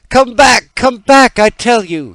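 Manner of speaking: high, loud, stamping command; angry cry. A narrator's reading. Boy stamping his foot at the birds, loud angry cry. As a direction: demand they return, furious. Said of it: "he cried".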